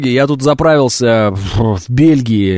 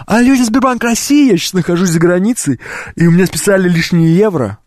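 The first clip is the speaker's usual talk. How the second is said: higher, careful phone voice; polite phone caller; 3 semitones higher than usual. Retold or imitated. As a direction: call the bank politely. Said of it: "Звоните в свой банк". (вежливо по телефону)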